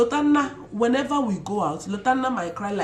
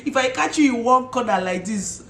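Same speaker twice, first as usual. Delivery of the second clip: laughing joke; 3 semitones higher, 4 dB louder than usual. Real, not acted. Joking threat about hair.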